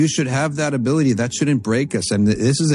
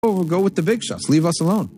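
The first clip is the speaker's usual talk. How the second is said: higher, taunting classmates; mocking jeer; 6 semitones higher than usual. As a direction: jeer at him like mocking students. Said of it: "start doing this and saying".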